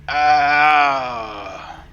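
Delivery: a baffled dwarf looking round for giants; lightly voiced dwarf, awkward and confused. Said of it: "is like".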